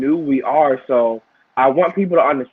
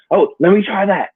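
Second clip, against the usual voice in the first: higher, louder, suddenly keen; eager idea; 6 semitones higher, 3 dB louder than usual. Retold or imitated. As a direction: seize the idea with eager excitement.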